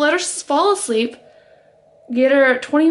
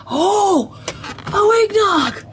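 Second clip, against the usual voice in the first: high, delighted squeal; excited; 9 semitones higher, much slower than usual. Real, not acted. Spotting eggnog in the fridge, excited squeal. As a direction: cry out, swooping up high.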